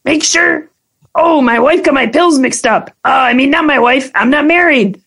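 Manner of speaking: high, loud sleazy talking car. Pretend. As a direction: flirt like a sleazy ride car. Continues the sleazy car bit.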